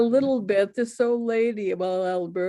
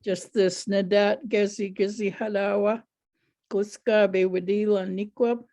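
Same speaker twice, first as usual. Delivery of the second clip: lightly lilting storytelling rhythm in Penobscot; a light sing-song rhythm, close to normal speech; rhythmic Penobscot recitation. Shown as a demonstration. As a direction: let the phrase rise and fall gently, like "Nadat Gezi Gezi Halawa", with a steady beat. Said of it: "I know what you mean, the rhythm to the stories".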